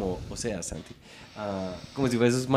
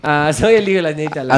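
louder, quicker mock Peruvian gomelo; posh Peruvian accent; 5 dB louder, faster than usual. Comedian repeats his rich-kid bit, mock posh Peruvian accent. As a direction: rattle it off as a pituco Peruvian. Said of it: "el peruano gomelo".

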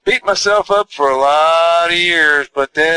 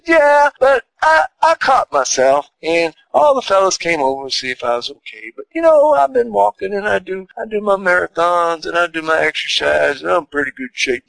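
voicing his mama; 3 semitones higher than usual. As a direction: lightly play his upbeat ninety-six-year-old mama. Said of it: "And she said".

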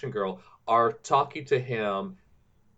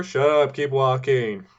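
mock director snapping; 4 semitones higher, 5 dB louder, slower than usual. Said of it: "director snapping at extra".

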